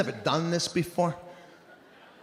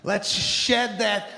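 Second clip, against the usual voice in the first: higher, pumped-up motivational voice; overly upbeat instructor; 3 semitones higher than usual. Retold or imitated. Spin teacher pumping up the class, higher and upbeat. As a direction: hype the room like a too-happy coach. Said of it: "He's like".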